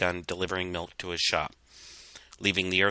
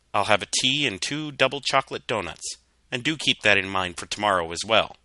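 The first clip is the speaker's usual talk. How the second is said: Call ordering; 2 semitones higher, 5 dB louder than usual. Acted. Artificer Call ordering tea and donuts, polite. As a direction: order breakfast crisply. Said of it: "Artificer Call had said".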